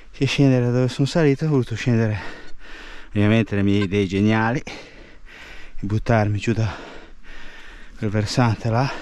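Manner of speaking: breathless after the climb; out of breath. Real, not acted. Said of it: "Scusate il fiatone".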